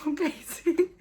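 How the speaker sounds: high, tearful gushing; choked up with happy disbelief; overwhelmed joy. Real, not acted. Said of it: "I can't stop freaking out".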